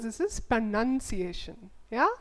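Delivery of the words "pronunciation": slow "pronunciation" with "nun" as second syllable. Shown as a demonstration. Teacher drilling learners on the word, slow "pronunciation" with "nun". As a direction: say "pronunciation" slowly, pruh-nun-see-ay-shun. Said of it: "what is this?".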